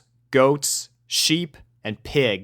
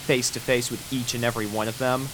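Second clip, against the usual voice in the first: usual speaking voice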